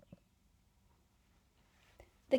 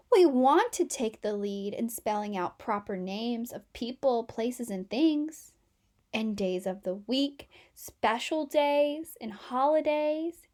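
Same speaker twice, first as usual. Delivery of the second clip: a lightly voiced whiny group of letters; lightly voiced letters, fading to a whisper; complaining capital letters; 4 dB louder than usual. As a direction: plead their case, then fade.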